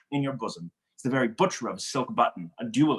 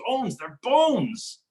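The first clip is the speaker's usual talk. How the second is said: mock lament; 9 semitones higher than usual. Mercutio mocking fashion mongers.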